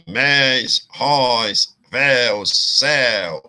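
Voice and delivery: "més, róis, véus, céu" with open é and ó diphthongs. Shown as a demonstration. Teacher listing monosyllable examples for students, open diphthongs. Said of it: "os ditongos abertos".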